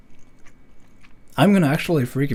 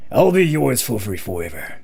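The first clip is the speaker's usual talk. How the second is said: sugar daddy voice; 3 semitones lower than usual. Shown as a demonstration. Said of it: "a daddy kind of person".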